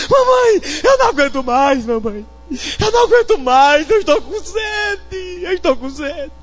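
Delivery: high, broken tearful plea; crying child. Acted. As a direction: beg your mother through sobs. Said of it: "começou a chorar". (menino chorando com sede)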